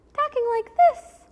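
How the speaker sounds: light, high-pitched, nasal talking voice. Showing how Disney princesses talk: light high Disney princess voice. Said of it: "really nice and light and high".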